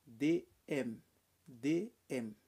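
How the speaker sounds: "D M" spelled out as "deux M"; double M. Shown as a demonstration. Teacher spelling out the double M in commencer. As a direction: say "D M" as French for double M. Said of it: "você vai pronunciar assim".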